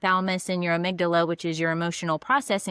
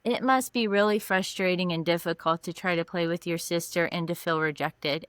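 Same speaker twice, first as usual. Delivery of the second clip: validating; 3 semitones lower than usual. Retold or imitated. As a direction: ease the upset child with empathy. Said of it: "And so I switched".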